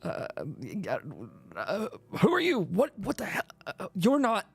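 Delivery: a spooked looter caught off guard; startled raider. Acted.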